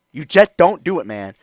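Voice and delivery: loud, high hyped-up shout; excited shout. Real, not acted. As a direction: yell the warning at full volume. Hyped warning about his champion.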